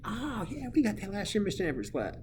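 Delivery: high, quick student imitation; put-on high-pitched pupil boast; confident student. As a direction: rattle it off like an eager kid. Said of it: "And you're gonna say".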